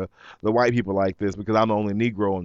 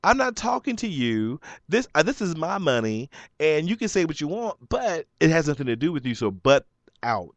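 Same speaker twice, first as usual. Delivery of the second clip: angry retort; 4 semitones higher than usual. Retold or imitated. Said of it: "she's still popping off. I'm like".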